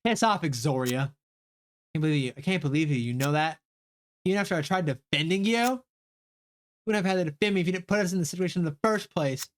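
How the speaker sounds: lightly voiced snapping; character spat. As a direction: throw it back at her.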